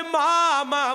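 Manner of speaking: son at the door calling his mother; pleading calls through the shut door. Acted. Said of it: "বলে ডাক দিয়েছে".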